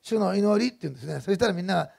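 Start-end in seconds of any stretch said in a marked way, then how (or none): 0.0-0.7 imitated Osaka-accent call, pitched higher; higher, mildly raised Osaka-accent prayer cue; big Osaka-accented voice. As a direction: announce it in mother's Osaka lilt. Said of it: "その時だけ大きな声で".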